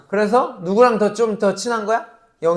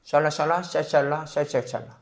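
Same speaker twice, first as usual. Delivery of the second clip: mock tongues babble; 5 semitones lower, 9 dB quieter than usual. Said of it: "목사님은 해".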